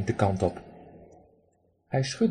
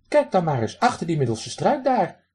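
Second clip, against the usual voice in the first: raspy quacking duck; 6 semitones higher than usual. Acted. Drake lectures the man who threw pebbles, high raspy quack. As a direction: play a cheeky drake scolding a stranger.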